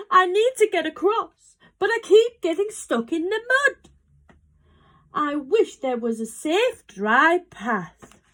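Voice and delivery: high-pitched, upset dog voice; howling dog. A narrator's reading. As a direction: plead like a dog in trouble. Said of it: "who was howling".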